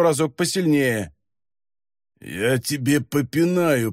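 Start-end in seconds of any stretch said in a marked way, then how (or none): 2.2-3.9 hoarse croak. Acted. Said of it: "прохрипел бес".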